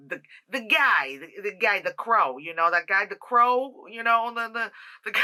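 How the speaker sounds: a hint of a gruff late-night pier worker; rough dock worker voice. Reviewer hunting for the crow character's name, in a mildly gruff voice. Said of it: "Why do I sound like I work at, like, a pier at two A M".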